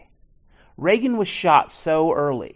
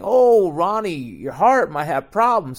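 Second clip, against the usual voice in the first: mock sweet-talk; 2 semitones higher, 5 dB louder than usual. Bush sweet-talking Reagan.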